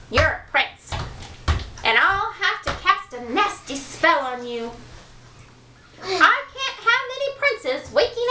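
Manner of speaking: high, scheming witch. Acted. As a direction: threaten with a nasty spell. Witch threatening.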